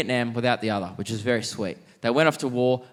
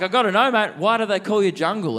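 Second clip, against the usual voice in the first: eager and excited; 8 semitones higher, 3 dB louder than usual. Retold or imitated. Eager question to the old man.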